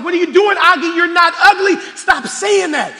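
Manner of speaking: emphatic retold motherly scolding; imitated mother's protest. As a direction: play a mother firmly contradicting her child. Mother scolds son in retold scene.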